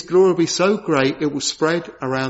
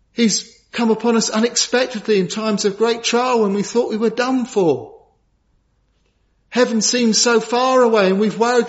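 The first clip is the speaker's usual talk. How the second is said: emphatic preacher, pitch lifted on key lines; fervent preaching; 6 semitones higher than usual. Real, not acted. Preacher assuring believers that Christ is real, fervently. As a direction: drive each truth home to the congregation.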